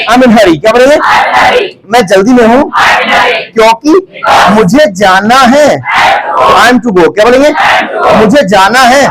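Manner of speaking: projected prompts, pausing for the chorus; classroom drill call-out. Real, not acted. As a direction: call out each phrase for the class to repeat.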